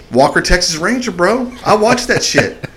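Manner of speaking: excited. Retold or imitated. Excited inner thought.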